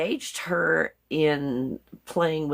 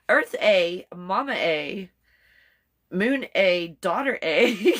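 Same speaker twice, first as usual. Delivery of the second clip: playful Canadian "eh" tacked onto each word; mock Canadian; slower than usual. Shown as a demonstration. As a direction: demonstrate a jokey Canadian accent with "eh". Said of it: "Then I'm just gonna sound Canadian".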